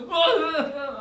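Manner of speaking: loud, high fake drunken bawling; hammed-up "uh-uh" sobs; mock wailing. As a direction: bawl like a crying drunk. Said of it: "이러면서 막 울어".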